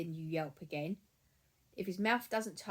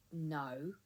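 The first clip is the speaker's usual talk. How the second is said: calm no; 4 dB quieter than usual. Shown as a demonstration. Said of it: "you need to just really calmly".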